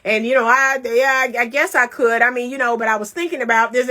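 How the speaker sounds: imitating a reluctant, stalling man; mock hesitant mumbo-jumbo with false starts; hemming and hawing. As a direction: stall for an excuse, half-committing. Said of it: "He be hemming and hawing".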